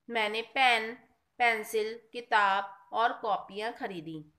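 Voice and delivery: brief stop after pen and after pencil; short comma pauses. Shown as a demonstration. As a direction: list pen, pencil, किताब with small breaks between items. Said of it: "पढ़ते समय जहाँ थोड़ी देर ठहरना हो". (पेन, pencil के बाद थोड़ा ठहरकर)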